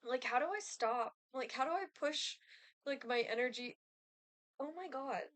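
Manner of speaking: talking while gagging. Real, not acted. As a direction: fight back a gag reflex. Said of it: "I'm, like, actively, like, gagging right now".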